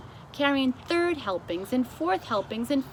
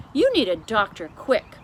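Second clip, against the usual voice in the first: louder urgent cry; 9 dB louder than usual. A narrator's reading. The King of Sweden urges the queen, loud. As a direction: rush the advice out. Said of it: "cried the king".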